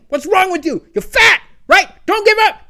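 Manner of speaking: high mock yell of a bossy trainer. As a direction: bark it like a dominatrix trainer, playfully. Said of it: "She'd just be yelling at me".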